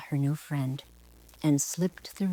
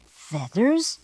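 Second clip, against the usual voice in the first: offended squawk. Acted. Peacock offended by the girl's request, indignant squawk. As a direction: bristle at the word feathers. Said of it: "he squawked".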